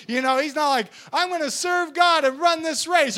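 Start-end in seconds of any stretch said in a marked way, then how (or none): 1.1-3.2 loud, high dopey shout into a big laugh; hammed-up dummy, building to idiotic guffaws; mock stupid enthusiast. Preacher playing a dumb would-be race runner, loud stupid voice. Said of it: "I'm not walking around stupid".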